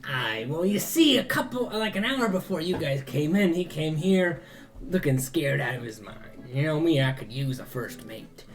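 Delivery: ship captain telling his tale; seafaring fairy captain. Acted. Ferryman explains his new first mate, seafaring captain voice. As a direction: spin it like an old seadog, lilting at first.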